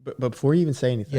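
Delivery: whispering. Real, not acted. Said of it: "Why are you whispering?".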